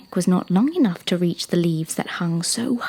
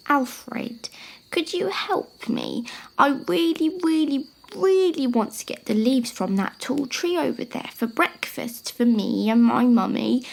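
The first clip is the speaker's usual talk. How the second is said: put-on pleading young giraffe; 4 semitones higher than usual. Young giraffe asking an elephant for help, high and pleading. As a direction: plead earnestly, starting high then easing down.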